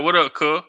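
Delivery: CUH with no z on the end; Southern cuh. Retold or imitated. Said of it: "They'd be like".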